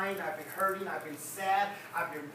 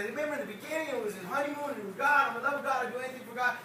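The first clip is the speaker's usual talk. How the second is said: higher, quick, eager recollection of first love; quoting the bishop; 4 semitones higher, faster than usual. Retold or imitated. Preacher quoting the bishop, higher and eager. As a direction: gush it like a newlywed. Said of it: "Bishop said".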